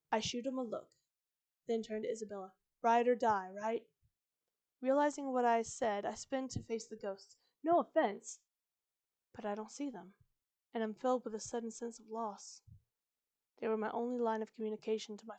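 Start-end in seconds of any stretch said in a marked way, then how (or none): 0.1-10.1 measured retake with separated phrases; less hurried reading. Shown as a demonstration. Narrator retaking the Isabella scene, less rushed, phrase by phrase. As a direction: give each beat its own pause. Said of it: "Let me try that again".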